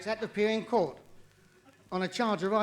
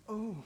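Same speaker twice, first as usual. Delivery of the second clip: imitated faraway moan; a small "oh" from far off; distant cry; 2 semitones higher, 7 dB quieter than usual. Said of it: "I heard a cry in the distance like".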